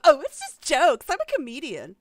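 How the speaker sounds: loud sarcastic echo; mocking repeat. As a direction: parrot it back with scorn.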